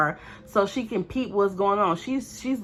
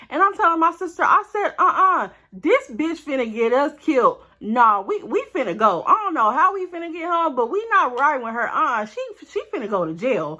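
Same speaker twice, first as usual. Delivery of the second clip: panicked disbelief; 5 semitones higher, 4 dB louder than usual. Retold or imitated. Panicked at friend's attack.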